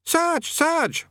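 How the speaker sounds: high, calling out urgently. A narrator's reading. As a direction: burst in with the news. Soldier bursts in calling out.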